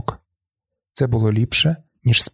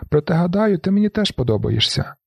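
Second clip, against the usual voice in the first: shouted confession; 7 semitones higher than usual. A narrator's reading. Marla confessing to the narrator, shouting. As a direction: shout it then let it drop. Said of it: "кричить Марла".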